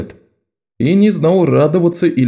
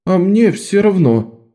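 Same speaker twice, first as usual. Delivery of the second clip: put-on higher, slow weary boy; higher, slow tired boy's voice; tired sigh; 9 semitones higher, slower than usual. A narrator's reading. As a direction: give up with a sigh. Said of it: "устало вздохнул он".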